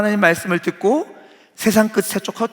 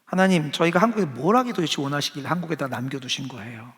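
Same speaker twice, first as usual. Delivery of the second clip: pouting question; 4 dB quieter than usual. Retold or imitated. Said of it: "입이 이만큼 나와서 질문하고".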